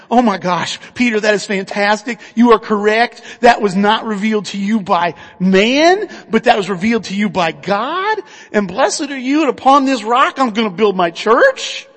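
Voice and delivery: emphatic, gushing approval in a retold voice; excited. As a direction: act out delighted praise, building emphatically. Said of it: "Jesus gets all excited".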